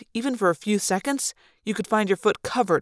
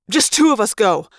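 snapped; 6 dB louder than usual. Acted. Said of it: "I snapped".

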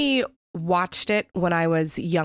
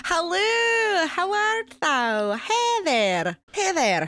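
put-on playful Manchester English accent, pitched up; British accent; 11 semitones higher, much slower than usual. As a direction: greet everyone in a hammed-up Manchester English accent. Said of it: "You can't talk like this".

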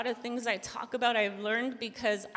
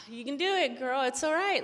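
self pep talk; 3 semitones higher than usual. Retold or imitated. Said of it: "That's what I need to tell myself".

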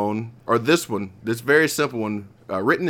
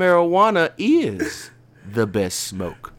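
higher, slow, spaced-out poem reading; stoner; 6 semitones higher than usual. Acted. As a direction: read it like you're blazed. Poem read after joking he's high.

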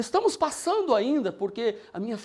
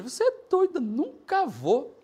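scoffing husband; 4 dB louder, slower than usual. Retold or imitated. Husband laughs off his wife's church invitation, slow scoff. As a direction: brush her off like a stubborn husband.

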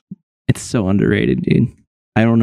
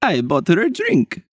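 lightly voiced Transylvanian vampire; vampire accent. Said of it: "I have to get into my accent".

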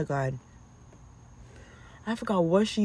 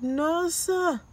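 stern; 10 semitones higher than usual. Retold or imitated. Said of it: "I was like".

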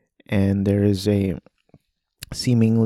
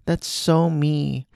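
much higher, soft innocent laugh, slow; naive giggle; 7 semitones higher, 3 dB quieter than usual. Retold or imitated. Mima reading the fan blog, naive amused giggle. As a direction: giggle along like a naive girl.

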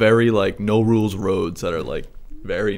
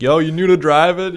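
high, loud mock Boston guy, laughing; Boston accent; 9 semitones higher, 6 dB louder than usual. Boston neighbor quizzing a new driver, mock accent. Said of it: "That's such a Boston response".

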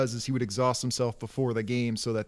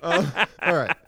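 Hank Hill. Shown as a demonstration. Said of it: "It's getting out of control".

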